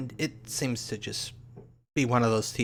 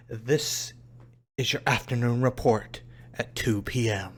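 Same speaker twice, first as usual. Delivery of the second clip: lightly hammed-up TV news anchor; melodramatic newscaster. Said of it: "this newscaster is very clearly one of those melodramatic newscasters".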